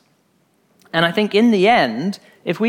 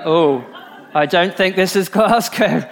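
laughing realisation. Retold or imitated. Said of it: "and you're like".

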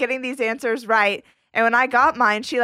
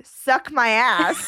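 slow quoted misheard phrase; much slower than usual. Retold or imitated. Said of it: "she thought that I said".

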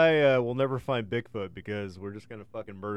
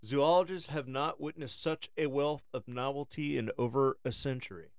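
nature documentary; 3 semitones higher than usual. Acted. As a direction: read it like a wildlife film. Reads a documentary script.

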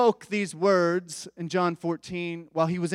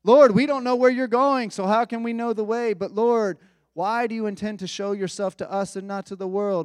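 higher, louder anxious pleading questions; panicked disciples; 5 semitones higher, 5 dB louder than usual. Acted. Disciples pressing Jesus with questions, panicky and loud. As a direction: fire off the worried questions in a rush of alarm. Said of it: "the disciples were panicked".

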